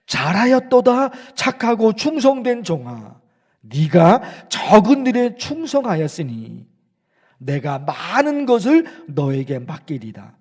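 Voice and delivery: bestow the praise like the master returning; voice of God praising. Acted. Preacher voicing God praising the faithful servant, slow and solemn. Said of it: "하나님으로부터 어떤 소리를 들어야".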